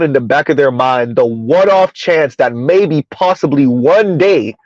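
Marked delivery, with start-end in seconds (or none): 1.2-4.6 slow, drawn out dreamily; slow dreamy. Retold or imitated. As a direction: stretch it out like a daydream. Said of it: "dreamy fantasy again".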